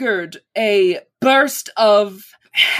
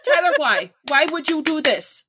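hammed-up indignant plea; mock outrage; 6 semitones higher than usual. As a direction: plead in hammy despair.

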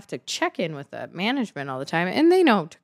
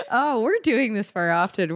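laughing; 4 semitones higher than usual. Real, not acted. Laughing at the joke.

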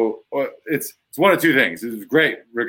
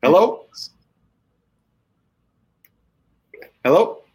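phone answer; 6 semitones higher, 4 dB louder than usual. Real, not acted.

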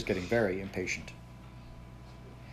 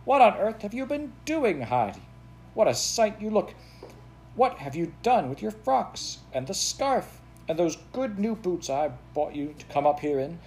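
shrill scolding call; 9 semitones higher than usual. Acted. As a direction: call out high and shrill, appalled at the child. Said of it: "she called out shrilly".

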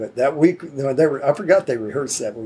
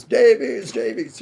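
lightly imitated, higher-pitched pal's call; a hint of a friendly holler, pitched up; chummy greeting; 8 semitones higher, slower than usual. Musician hanging out in his office, chummy greeting.

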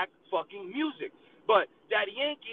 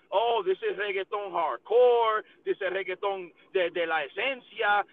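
slow, exaggerated hype-man voice; drawn-out mock promo hype; 3 semitones lower than usual. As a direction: ham it up like a fake promo. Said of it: "they putting out a million videos".

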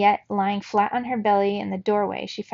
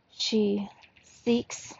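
hollow, distant trance voice; eerie hollow oracle voice; much slower than usual. A narrator's reading. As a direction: speak as if from far away. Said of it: "said in a hollow voice".

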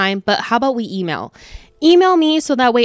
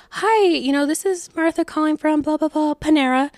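phone voice; 8 semitones higher than usual. Retold or imitated. Phoning a grieving customer at work.

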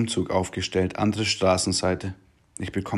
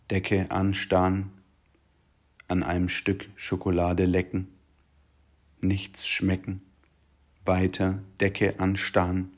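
monotone bored litany. Acted. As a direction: recite it like endless dull days. Bored looping diary litany. (leise, eintönig und lustlos)

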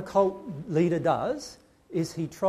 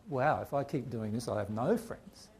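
mock dismay; 4 semitones lower, 4 dB quieter than usual. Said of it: "you end up feeling like".

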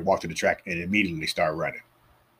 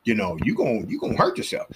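mock gym warning; 5 semitones higher than usual. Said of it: "I'm looking at him like".

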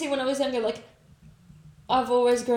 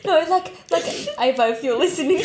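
laughing; 5 semitones higher, 4 dB louder than usual. Real, not acted. Laughing teasing absent friend.

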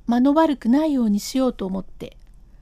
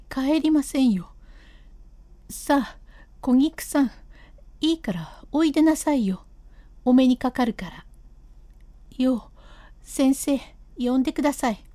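lightly raised voice of an insistent wife; stubborn wife. Acted. Wife refusing to leave without seeing Kogiku, lightly raised stubborn voice. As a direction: dig in your heels and refuse to leave.

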